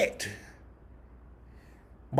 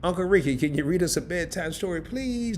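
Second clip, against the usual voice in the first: put-on kid asking for a story; 2 semitones higher than usual. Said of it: "a rapper".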